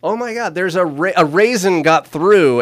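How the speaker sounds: high, frantic mock cry of alarm; hammed-up panic over a stray raisin; mock panicked yell. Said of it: "you heard somebody yell".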